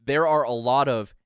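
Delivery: retold line, slow and loud; very explicit. Uber driver warning passengers about drug sellers, slow explicit delivery. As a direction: spell it out slowly, word by word. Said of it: "he just said it, like, very, very explicitly".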